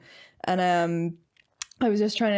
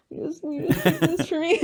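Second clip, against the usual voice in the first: voiced character excuse; 9 semitones higher than usual.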